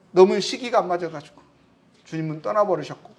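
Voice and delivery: ordinary delivery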